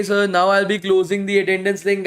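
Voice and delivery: normal talking voice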